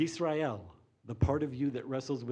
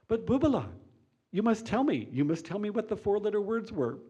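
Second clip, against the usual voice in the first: pushy Jewish mother; 9 semitones higher, 6 dB louder than usual. Acted. Joke, mother pressing her daughter.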